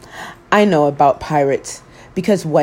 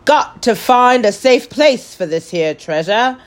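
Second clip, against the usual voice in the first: pirate announcing; 4 semitones higher than usual. Acted. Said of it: "he announced".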